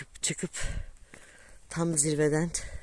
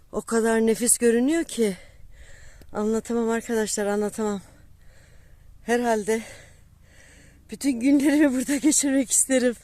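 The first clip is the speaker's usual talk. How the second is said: awed; 6 semitones higher, 3 dB louder than usual. Real, not acted. Awed by summit view.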